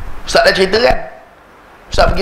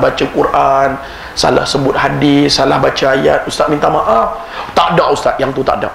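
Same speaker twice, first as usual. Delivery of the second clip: put-on Kedah accent; 3 semitones lower than usual. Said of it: "dia orang Kedah".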